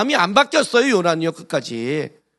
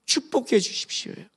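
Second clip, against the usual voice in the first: whispered plea; 4 semitones higher, 6 dB quieter than usual. Retold or imitated. Jacob begging for blessing.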